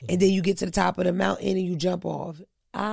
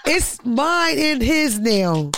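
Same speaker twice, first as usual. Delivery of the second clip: laughing; 3 semitones higher, 5 dB louder, much slower than usual. Real, not acted. Comedian laughing off her accent with friends, laughing. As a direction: laugh through the words. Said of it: "Bro, how's my accent?".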